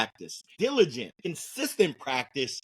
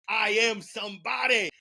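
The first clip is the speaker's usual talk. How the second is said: proud, higher declaration; power affirmation; 6 semitones higher than usual. Shown as a demonstration. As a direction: proclaim it in a power pose. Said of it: "stand up in a power pose and say".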